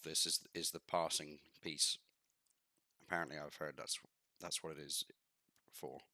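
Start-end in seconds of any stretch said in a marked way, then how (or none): 3.1-6.0 mouth full of spicy food. Real, not acted. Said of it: "My mouth is on fire".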